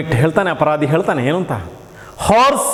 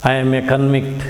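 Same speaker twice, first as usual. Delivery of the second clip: low, rough convict voice, much lower; hoarse convict; 7 semitones lower, faster than usual. Acted. Teacher voicing the convict for the class, low and rough. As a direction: growl it like a hardened prisoner. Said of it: "With the rough voice".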